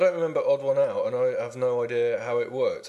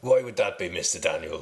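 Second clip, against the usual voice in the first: a country contestant greeting the host; West Country accent; 5 semitones lower than usual. Pretend. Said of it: "I'll talk like a West Country man then".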